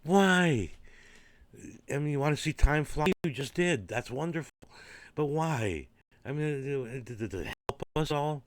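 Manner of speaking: mock the absurd tantrum; high, loud exasperated mock outrage; indignant disbelief. Mocking the watch-throwing conductor.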